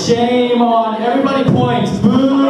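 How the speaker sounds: high, drawn-out mock boo; mock shaming. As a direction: scold the crowd in a high, playful jeer. Jokingly shames the audience.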